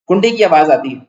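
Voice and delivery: ordinary delivery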